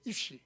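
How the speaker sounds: "이슈" said with a soft sh sound; correct Hebrew "sh". Shown as a demonstration. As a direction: pronounce "이슈" with sh, not t. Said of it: "히브리어로 사람이라는 말이". ("이슈"를 '쉬' 소리로 정확하게 발음)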